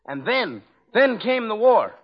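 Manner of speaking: hammed-up old-timer's drama; melodramatic reminiscence. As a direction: make it a grand, solemn turning point. Grandiose reminiscence by teenage comic.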